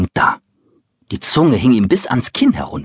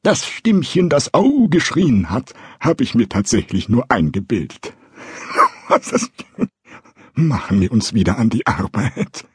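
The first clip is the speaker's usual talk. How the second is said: forced cheerfulness; 3 semitones higher than usual. Acted. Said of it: "zwang sich ein Lächeln ab".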